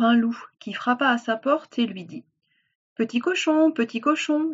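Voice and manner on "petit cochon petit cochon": high, coaxing call to the pig; wolf calling. Acted. Wolf to little pig at the door, high coaxing call.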